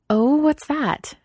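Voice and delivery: put-on girl breathlessly eager for gossip. A narrator's reading. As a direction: lean in, thrilled to hear the secret. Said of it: "Mina asked eagerly".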